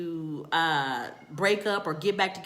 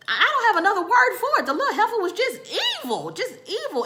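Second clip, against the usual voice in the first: laughing; 13 semitones higher, 6 dB louder, much faster than usual. Real, not acted. Calling her daughter evil.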